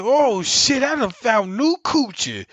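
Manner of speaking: loud, high, amazed exclamation; excited discovery. Retold or imitated. Telling the story of his discovery, a loud excited exclamation. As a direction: shout it like you struck gold.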